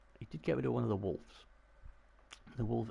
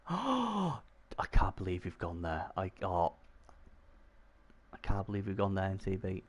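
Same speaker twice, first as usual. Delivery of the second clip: mock gasp of disbelief. Mock outrage at NTB's play.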